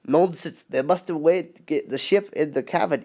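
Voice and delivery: light Scottish accent, lightly put on; a hint of a Scottish railwayman; Scottish brogue, understated. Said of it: "I can kinda do a Scottish voice".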